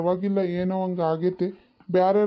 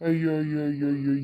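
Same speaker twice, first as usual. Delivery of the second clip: exasperated groan; 3 semitones lower, much faster than usual. Acted. Husband fed up with nagging wife.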